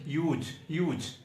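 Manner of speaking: यूज said slowly and clearly, twice over; careful pronunciation. Shown as a demonstration. Teacher showing the class how to say huge as यूज, slowly. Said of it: "इसे ही यूज नहीं पढ़ेंगे".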